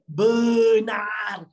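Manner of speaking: "Benar" loud, each syllable hugely stretched; emphatic drawl. Shown as a demonstration. Teacher correcting a confused student, "Benar" loudly drawn out. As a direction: shout "Benar" long and slow.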